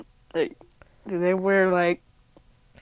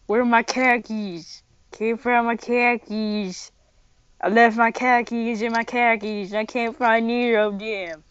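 a light put-on New Jersey accent; mock New Jersey accent. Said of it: "People talk like this in New Jersey".

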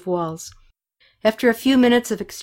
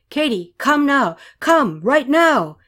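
high, raised, insistent commands; acted urgent shouts, pitched up; urgent calling; 7 semitones higher, 4 dB louder, slower than usual. A narrator's reading. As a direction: demand that she come at once. Urgently calling Katy to shelter.

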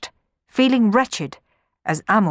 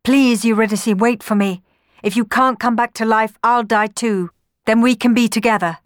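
loud, higher, pleading lament; groaning despair; 5 semitones higher, 6 dB louder than usual. A narrator's reading. Orpheus to dead Eurydice, despairing plea. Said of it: "groaned Orpheus".

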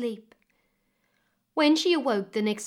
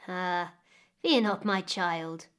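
put-on a lightly lower, slow old woman's voice; soothing old woman; 3 semitones lower, slower than usual. Old woman reassuring the weeping May, slow and a touch lower. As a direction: hush her fears gently, unhurried.

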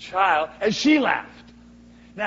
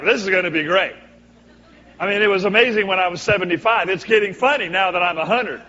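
put-on excited old man; 3 semitones higher, 8 dB louder, faster than usual. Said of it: "I think he's laughing like".

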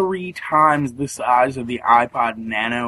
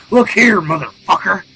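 mock confrontational woman, higher and louder; aggressive woman; 3 semitones higher, 5 dB louder than usual. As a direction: snap it like she's picking a fight. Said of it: "she looks at me and goes".

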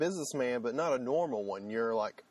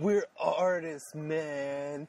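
mock pretentious artist; 3 semitones higher, much slower than usual. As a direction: play the lofty artist, tongue in cheek.

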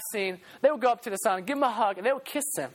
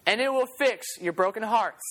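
put-on old peddler's call; 2 semitones higher than usual. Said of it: "he'd say".

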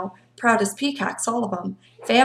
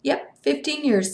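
relieved; 6 semitones higher than usual. Acted. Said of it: "with evident relief".

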